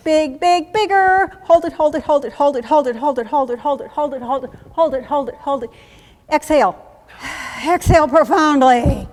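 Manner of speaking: loud, high, urgent coaching; drill-style breathing commands. Shown as a demonstration. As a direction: push the breath like a drill instructor.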